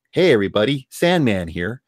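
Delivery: lightly imitated thin-voiced greeting; a hint of a thin voice, lifting at the end; Sandman. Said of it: "has that thin voice".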